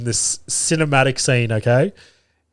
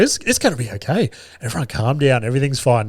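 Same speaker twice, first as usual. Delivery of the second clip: retold calming down; faster than usual. Dad soothing his hurt son after the towel flick, imitated calming. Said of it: "calm him down".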